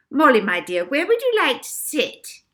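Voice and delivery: put-on high, loud, fawning old matron voice; sweet grand matron. Miss Addiston fawning over Molly, high and sugary. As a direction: fawn over her like royalty.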